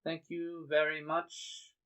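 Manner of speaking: politely see the visitors off; a touch of fussy courtesy; lightly voiced prim homeowner. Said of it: "And she goes".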